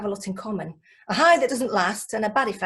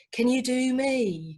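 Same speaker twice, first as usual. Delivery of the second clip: mumbly fan voice; slower than usual. Retold or imitated. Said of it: "people with indistinct voices".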